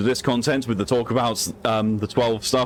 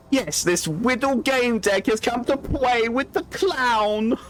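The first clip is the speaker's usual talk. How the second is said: a touch higher, slow creepy clown; a hint of the sinister clown, drawn out; lightly voiced clown; 11 semitones higher, much slower than usual. Streamer answering the clown in his own voice, slow and high.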